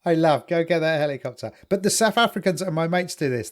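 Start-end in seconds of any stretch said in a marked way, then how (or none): none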